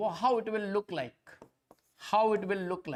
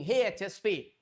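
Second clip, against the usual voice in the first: Champa's voice; 2 semitones higher than usual. Acted. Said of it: "she talks like this".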